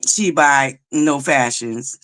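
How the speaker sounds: slow, drawn-out mock snobbery; Dwight voice. Doing her Dwight voice for the chat, slow sneer. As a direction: sneer it slowly like a snob. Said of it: "in my Dwight voice".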